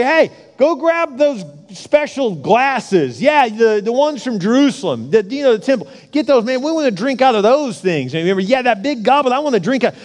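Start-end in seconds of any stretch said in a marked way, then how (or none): 0.0-8.1 higher-pitched, lightly acted party-boy king; drunk partying king. Drunk king sends for temple goblets, lightly acted rowdy excitement. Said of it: "and he's drunk". 8.4-9.9 higher-pitched, lightly acted party-boy king; drunk partying king. Drunk king sends for temple goblets, lightly acted rowdy excitement. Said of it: "and he's drunk".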